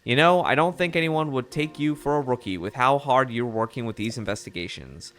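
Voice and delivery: lightly voiced mid-Atlantic reporter; mild mock mid-Atlantic accent. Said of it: "like, a mid-Atlantic accent".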